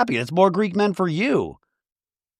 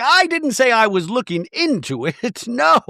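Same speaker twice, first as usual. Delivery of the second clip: high mock Bronwyn; 9 semitones higher than usual. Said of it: "And Bronwyn's like".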